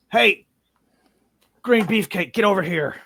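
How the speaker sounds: gruff summons. Acted. Ranger calls the orc over after combat, loud summons. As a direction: holler over at a comrade. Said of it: "he's like".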